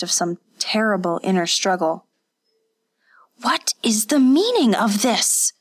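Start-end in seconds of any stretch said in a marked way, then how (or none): 3.4-5.5 hushed, breathy whisper of the question; whispered repeat. Acted. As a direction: whisper it, shaken. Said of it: "Kazuko repeated".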